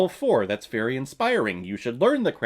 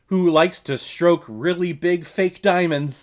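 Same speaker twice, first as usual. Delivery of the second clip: ordinary talk, nothing marked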